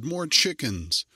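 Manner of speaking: put-on girl demands chickens from the merchant; slow shout. A narrator's reading. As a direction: call it out slowly and loud. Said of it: "she shouted".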